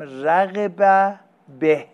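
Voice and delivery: slow, drawn-out رغب به with به held long; stress on به. Shown as a demonstration. Teacher spelling out رغب به for students, slow and stressed. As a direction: lean hard on the به of رغب به. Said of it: "وقتی گفتم که این به رو برداشتم".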